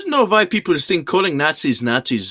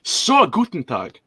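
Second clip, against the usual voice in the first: mock German accent. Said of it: "the ones I can do".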